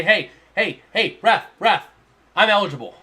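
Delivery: repeated punchy calls to get noticed; insistent attention-getting. Acted. Player hailing the ref to report as eligible, insistent. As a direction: make yourself known to the ref, firmly. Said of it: "you gotta make yourself known".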